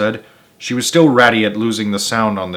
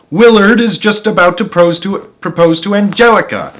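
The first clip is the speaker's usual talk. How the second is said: higher, a bit louder whine; whiny wife; 10 semitones higher, 6 dB louder than usual. Acted. Wife whining about missing her programme, higher. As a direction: complain about missing the show.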